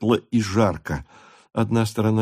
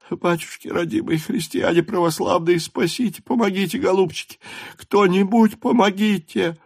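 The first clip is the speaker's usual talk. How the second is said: high, wailing plea for help; a mother begging strangers, sobbing; pleading through sobs; 10 semitones higher than usual. A narrator's reading. Frantic mother begs strangers for help, sobbing high. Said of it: "выговаривала она сквозь рыдания".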